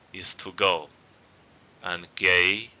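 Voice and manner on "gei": "gei" rising gently. Shown as a demonstration. Teacher giving the last first-tone example, rising tone on "gei". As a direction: lift "gei" a little at the end. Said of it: "raising tone".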